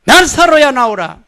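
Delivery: loud, high call-and-response command; congregation call. Shown as a demonstration. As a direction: lead the room in the call. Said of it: "따라해봅니다".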